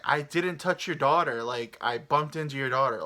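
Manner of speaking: mildly heated retelling of a denial; imitated arguing. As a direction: push back like an accused passenger. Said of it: "they start arguing".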